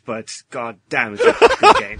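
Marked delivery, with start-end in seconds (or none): 1.2-2.0 loud high blurt; hammed-up declaration; emphatic shout. Big emphatic finish.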